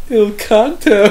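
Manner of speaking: lightly voiced dad calling for the check; dad's announcement. Dad's triumphant call in retold story.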